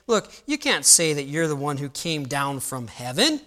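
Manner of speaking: high, loud, mocking voice of the doubting crowd; scoffing crowd. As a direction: mimic the smug know-it-all townsfolk. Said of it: "They say".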